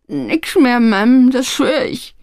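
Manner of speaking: high-pitched, pleading voice; cowed lad begging to be believed; tearful oath. A narrator's reading. Sobbing young man swears honesty.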